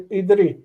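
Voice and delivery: idri said with exaggerated, careful articulation; overpronounced. Shown as a demonstration. Teacher showing students the Hebrew form, overpronounced idri. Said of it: "I'm, uh, pr-, overpronouncing".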